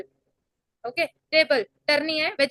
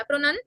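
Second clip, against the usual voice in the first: "प्रोनन" light on प्रो, lifted on नन; light pro, raised nun. Shown as a demonstration. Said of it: "नन थोड़ा ऊपर करा".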